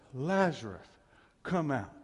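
loud call. Acted. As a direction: call the dead man out loudly. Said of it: "in a loud voice".

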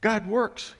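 mock panicked no. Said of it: "you just like".

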